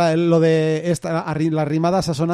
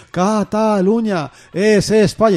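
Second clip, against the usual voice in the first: mock fascist; 4 semitones higher, much slower than usual. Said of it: "un fascista que dirá".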